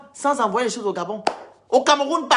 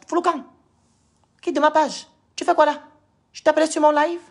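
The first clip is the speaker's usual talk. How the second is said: sharp, higher and louder, ordering him off the page; angry yelling; 5 semitones higher, 3 dB louder than usual. Real, not acted. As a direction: throw the intruder out, furious. Chasse quelqu'un de son live. (crier avec colère)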